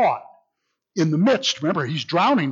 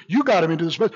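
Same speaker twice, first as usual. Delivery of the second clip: "you" pressed harder, rising at the end; stress on you; much faster than usual. Shown as a demonstration. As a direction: lean on "you" as the accusation. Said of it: "He's emphasizing".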